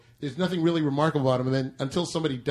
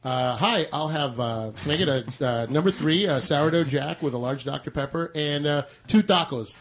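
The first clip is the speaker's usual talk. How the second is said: lightly played drive-through order, mostly plain English; drive-through Spanish. Shown as a demonstration. Customer ordering at a drive-through speaker, mock drive-through Spanish. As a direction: order hesitantly, punching up only the last words. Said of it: "Say something in drive-through Spanish".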